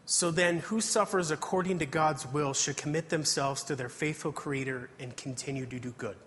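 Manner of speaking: measured, earnest Bible reading voice; scripture reading. Acted. Preacher reads First Peter aloud to the congregation. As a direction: read the verses aloud to the congregation.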